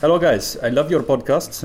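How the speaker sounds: put-on shaky South African accent drifting into German; half-German attempt at South African. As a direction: read the fan mail in a botched South African accent. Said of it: "I've decided you're South African".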